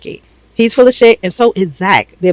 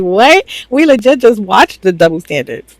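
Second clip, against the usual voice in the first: incredulous what; 3 semitones higher than usual. Retold or imitated. T T arguing with the guys, exasperated. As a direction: fire it back in disbelief.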